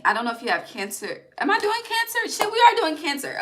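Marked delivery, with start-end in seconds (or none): 1.4-3.4 sudden realisation. Real, not acted. Realises she's reading Cancer now.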